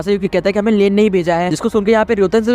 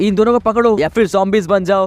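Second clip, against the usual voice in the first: normal talking voice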